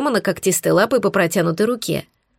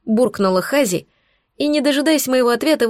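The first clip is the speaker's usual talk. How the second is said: usual speaking voice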